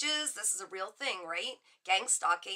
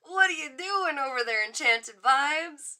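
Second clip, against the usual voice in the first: amazed; 4 semitones higher, 5 dB louder than usual. Real, not acted. Amazed at another viewer.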